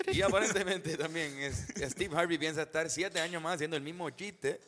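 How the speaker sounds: mock anchorman read; put-on news bulletin delivery. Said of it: "Tres hombres ancla".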